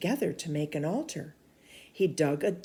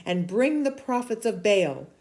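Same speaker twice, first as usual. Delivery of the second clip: stern prophet rebuking. Acted. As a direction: scold the king like a bold prophet. Elijah's challenge to Ahab.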